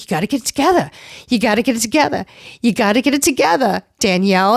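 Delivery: imitated insistent pep talk; Dolores. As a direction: repeat it like a no-nonsense friend, imitating her. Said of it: "true Dolores fashion, she's like".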